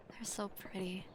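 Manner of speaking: soft whispered wonder; awed whisper. Acted. Princess watching fireworks with a stranger, awed whisper. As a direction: hush it at the sky.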